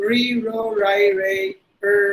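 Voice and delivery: "re, ro, ri, re, er" with untapped R; American R. Shown as a demonstration. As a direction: curl the tongue without touching on "er". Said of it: "they will replace the R sound with er". (அமெரிக்க "er" ஒலி, நாக்கு படாமல்)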